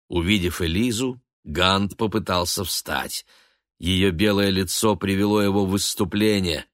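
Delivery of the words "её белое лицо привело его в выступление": ordinary delivery, nothing marked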